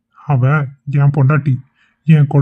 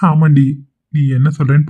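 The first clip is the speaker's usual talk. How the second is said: laughing admission. Acted. Husband laughs admitting the prank.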